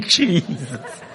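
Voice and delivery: imitated Black American church moan; Black American preacher style. Preacher calling on Jesus, imitated Black American style. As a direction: draw out the name, mimicking Black American delivery. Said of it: "let me say it like a black person".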